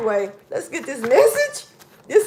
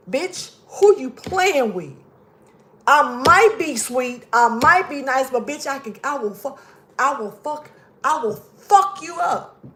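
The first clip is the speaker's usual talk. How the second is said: slow menacing threat. Pretend. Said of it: "I had to say it like that".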